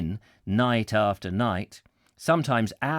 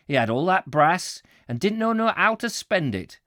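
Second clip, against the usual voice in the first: hammed-up Yorkshire warehouseman, pitched higher; terrible Yorkshire accent; 4 semitones higher than usual. Warehouseman telling Jack about the boss, put-on Yorkshire accent. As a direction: give it broad, emphatic Yorkshire. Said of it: "I'm doing a terrible accent".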